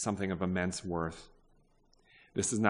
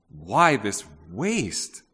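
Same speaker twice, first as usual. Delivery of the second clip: slow, louder "Why this waste?"; indignant disciples; 6 dB louder, much slower than usual. Acted. Preacher voices the disciples' indignant question, loud and slow. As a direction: drag it out in scornful protest.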